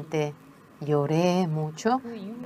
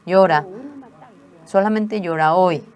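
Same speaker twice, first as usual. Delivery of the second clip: a mother firmly tells her daughter to cry only today, louder; louder, firm mother's command; firm permission; 2 semitones higher, 8 dB louder than usual. Retold or imitated. Grant it forcefully, once.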